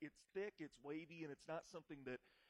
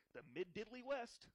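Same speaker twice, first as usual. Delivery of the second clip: higher, sing-song goody neighbor voice; Ned Flanders voice; 7 semitones higher than usual. Retold or imitated. Host mimics a cartoon neighbor for his co-host, higher and sing-song. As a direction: pitch it up like the cheery diddly-talking neighbor. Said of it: "as Ned would say".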